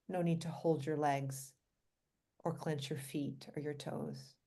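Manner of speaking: calm, unhurried guiding voice with long pauses; guided meditation. Real, not acted. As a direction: gently lead listeners through relaxing the body.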